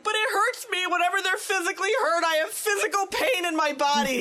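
high, pleading and a bit laughing; mock whiny plea. Mother explaining to husband why she panics, high mock-whiny plea. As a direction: plead your own pain, half-joking.

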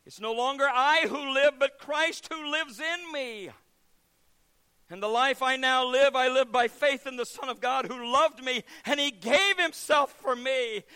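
slow, rising to a loud high proclamation; preacher's climax; fervent scripture. Retold or imitated. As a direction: proclaim it with conviction. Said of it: "To which Billy Stracklin said".

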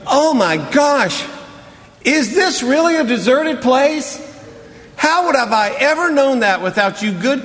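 high, mocking, exaggerated surprise; mock amazement at obvious news; sarcastic Jesus. Jesus mocking the tired church's idea, sarcastic and high. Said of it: "I can imagine Jesus' response".

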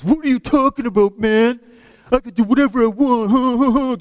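high, loud, fast defiant retort; mocking voice of a defiant gang kid; defiant teen. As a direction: talk back like a cocky kid caught out. Defiant gang kid confronted by staff.

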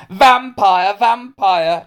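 high, loud taunting chant; jeering shout. Acted. Hamish taunts Melanie in class, shouting. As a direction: call it out like a playground taunt. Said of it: "he shouted".

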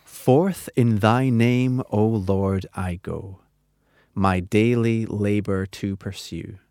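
slow, measured recitation; hymn reading. Acted. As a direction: read the hymn lines solemnly and slowly. Reads the hymn lines slowly.

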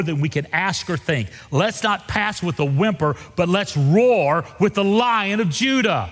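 fired-up reading. Shown as a demonstration. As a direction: read it with rising fire. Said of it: "That is so much better".

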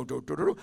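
soft, low mock trumpet; quiet doo-doo trumpet noise; imitated trumpet toot. Shown as a demonstration. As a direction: toot a little trumpet line under your voice. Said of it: "a nineteen sixty-four trumpet".

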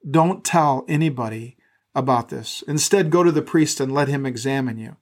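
measured, steady reading of scripture. Acted. Pastor reading Mark to the church, measured reading voice. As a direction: read the Gospel aloud to the congregation.

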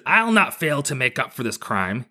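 lightly voiced tortured creature; tortured kappa. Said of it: "I was doing, like, a tortured".

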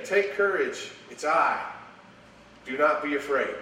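reassuring call. Acted. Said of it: "Jesus spoke to them, saying".

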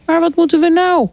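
high-pitched worried question; dismayed. A narrator's reading. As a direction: ask in high-voiced dismay. Ant dismayed at losing the sun. (hoog en ontdaan)

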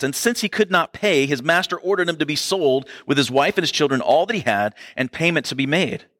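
a touch of the preacher's reading voice; scripture reading. Acted. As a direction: read the passage to the congregation. Reads the parable aloud.

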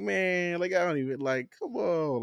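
high-pitched whining complaint, dragging out the end; acted exasperation. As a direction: play a fed-up caller pleading. Acting frustrated caller to movie line.

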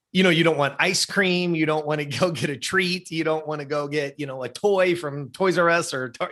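lightly acted puzzled mom listing treats; incredulous mother. Mom offering son treats instead of sporting goods, incredulous.

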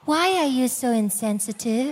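mildly staged, over-polite complaint; a put-on, too-nice reproach; mock angelic arguing. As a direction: play at a sweetly unrealistic quarrel. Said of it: "nobody argues like that".

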